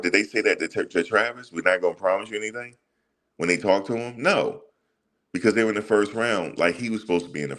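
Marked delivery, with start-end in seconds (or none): 1.5-2.8 higher and fast, mocking disbelief; mocking incredulous quote. Fed-up vlogger mocking what the team told the kid, sarcastic. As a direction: toss their line back at them, sarcastic. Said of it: "Did you say that to Cam Ward?".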